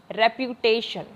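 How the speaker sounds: रेप्यूटेशन said slowly, weight on टे; teacher's careful रेप्यूटेशन with stressed टे; stress on TAY. Shown as a demonstration. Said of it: "वो टे पे ही आता है।".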